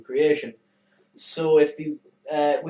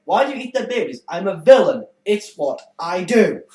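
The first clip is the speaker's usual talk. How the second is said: evil villain; 3 semitones higher, 8 dB louder than usual. Retold or imitated. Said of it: "hear me spout stuff like".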